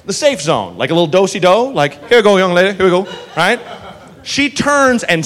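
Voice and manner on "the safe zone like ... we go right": southern cop drawl. Retold or imitated. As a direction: usher her out like a genial southern cop. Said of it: "And he goes".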